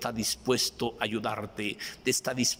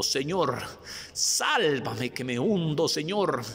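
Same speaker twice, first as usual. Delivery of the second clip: cry of faith; 4 semitones higher, slower than usual. Acted. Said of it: "grítele como le gritó Simón Pedro".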